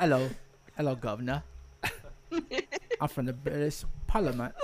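hammed-up British "governor" greeting; British accent. Shown as a demonstration. Taking a turn at the accent game, mock British accent. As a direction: try a stock British accent on demand. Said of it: "It won't be British".

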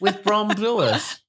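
high, slow drawn-out name call; announcer shout. Acted.

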